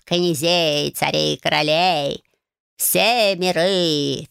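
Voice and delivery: lightly voiced proud magic cat, mostly slow; a menacing old cat lecturing, a touch of a growl. Cat Bayun lectures Marya about his power, mildly menacing. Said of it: "прорычал".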